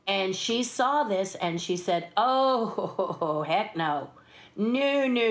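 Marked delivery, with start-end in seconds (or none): 2.2-5.3 drawn-out, lightly acted star refusal; mock refusal. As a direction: play at flatly refusing the job.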